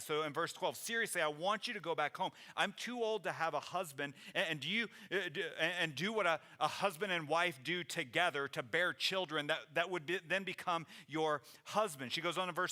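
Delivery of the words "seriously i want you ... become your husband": exasperated, voice a little raised; mildly sarcastic, pressing the point; snarky. Acted. Naomi telling the girls to go home, exasperated and snarky. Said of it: "gets a little bit snarky, a little sarcastic".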